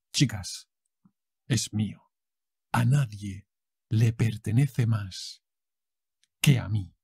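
low, intense soap opera line; telenovela diva. Shown as a demonstration. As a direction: claim him like a jealous diva.

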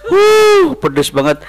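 talking while eating soup; eating hot spicy food; mouth full chewing. Real, not acted. Seen 1: Spoon in mouth, then chewing and wincing at spice while talking.

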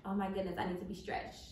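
hushed, worn-out whisper; breathy groaning whisper. Retold or imitated. Pregnant wife retells her aching hip, hushed whisper. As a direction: sigh it out under your breath like your hip aches.

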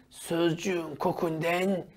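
slow, soft whispered rule; slow whisper of the motto; whispered slogan. Shown as a demonstration. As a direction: hush it like a secret to remember. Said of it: "Neymiş slogan?".

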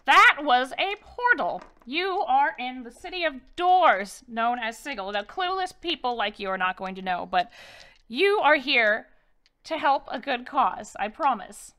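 a lightly voiced crone, welcoming but firm; old Crone guide. Crone tells the lost party they're here to help, lightly voiced.

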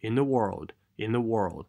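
short phrase said as one unit; connected reading. Shown as a demonstration. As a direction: link the words without gaps. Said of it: "也是连贯性".

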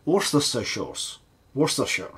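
trying out "Worcestershire" as WOR-ster-sher; tentative pronunciation attempt. Real, not acted. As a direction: sound out "Worcestershire", unsure of it. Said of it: "Do you say like that?".

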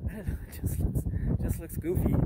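laughing. Real, not acted. Laughing about goofy dome.

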